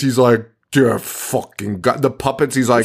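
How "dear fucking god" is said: slow, overdone disbelief; mock awe. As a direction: stretch it out as if stunned by a breeze. Mocks cop's awe at a breeze.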